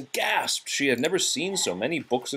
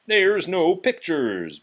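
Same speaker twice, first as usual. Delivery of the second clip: mocking disbelief; 7 semitones higher, 4 dB louder, slower than usual. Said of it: "Gaston said".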